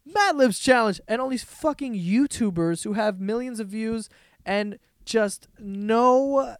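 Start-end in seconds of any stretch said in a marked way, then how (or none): 0.1-1.0 laughing disbelief. Real, not acted. Repeats the title laughing.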